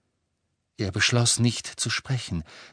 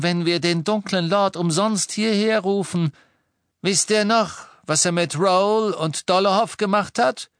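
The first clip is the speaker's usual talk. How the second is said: high, louder, cold-voiced lady; cold, clear voice; 10 semitones higher, 5 dB louder than usual. A narrator's reading. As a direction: warn them coldly, voice raised. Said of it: "mit ihrer kalten, klaren Stimme". (kalt und klar, mit erhobener Stimme)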